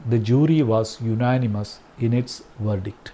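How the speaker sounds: very slow, word by word; slow dictation. Shown as a demonstration. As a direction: read it out slowly for the class to write. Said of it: "ശരിക്കുള്ള correct sentence". (വളരെ പതുക്കെ, വാക്കോരോന്നായി)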